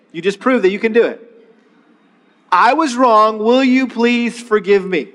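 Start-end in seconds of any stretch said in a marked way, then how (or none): 2.5-5.1 measured and slow; slow model apology. Shown as a demonstration. Pastor modeling apology for couples, slow. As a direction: model it clearly. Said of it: "hard to get out of our mouths".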